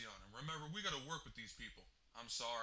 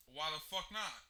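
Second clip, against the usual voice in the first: louder, sharp angry question; exasperated; 5 semitones higher, 5 dB louder than usual. Acted. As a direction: snap in disbelief. Exasperated at missing radio.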